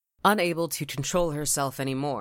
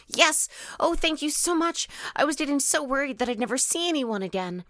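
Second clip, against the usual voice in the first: put-on little girl voice; 13 semitones higher than usual. Relieved little girl thanks stranger.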